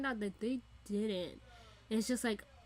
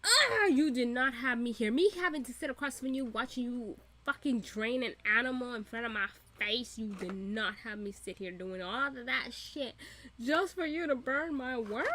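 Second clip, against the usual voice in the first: pissed off. Pretend. Fan playing the wronged interviewer, ranting indignantly. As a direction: scold in put-on indignation. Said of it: "so pissed the fuck off".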